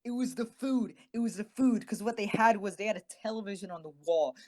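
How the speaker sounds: high, fast, eager enthusing; excited gush. Real, not acted. Telling the co-host about the hospital food, a high excited gush. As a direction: bubble over about the best part.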